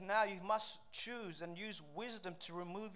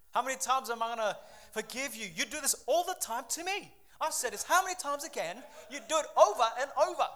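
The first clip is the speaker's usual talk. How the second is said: raised, fed-up mock protest; indignant and louder toward the end; exasperated complaint; 3 semitones higher, 5 dB louder, faster than usual. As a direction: act out someone at the end of their patience. Acts out a fed-up offended person.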